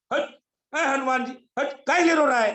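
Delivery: scolding in rustic Hindi, pitch up; a hint of an old village elder scolding; village-dialect Jamvant. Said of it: "हंसी के लिए से बोल रहा हूँ". (गाँव की भाषा में हल्की डाँट)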